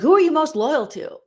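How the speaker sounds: high, lightly voiced host question; mock host. Vlogger imitates Jerry quizzing Quinn, high host question.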